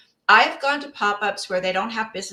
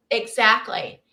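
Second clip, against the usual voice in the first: usual speaking voice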